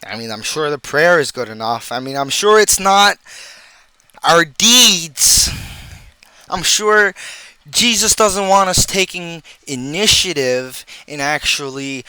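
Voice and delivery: mock-sure sarcasm with punched words; sarcastic. Speaker mocking churches that won't help people out financially, sarcastic. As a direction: pretend to agree, laying the sarcasm on. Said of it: "that is sarcasm again".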